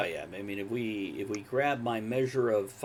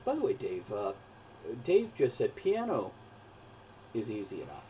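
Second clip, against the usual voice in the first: muffled, mic covered. Real, not acted. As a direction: sound muffled by the cat. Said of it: "You're sounding kinda muffled".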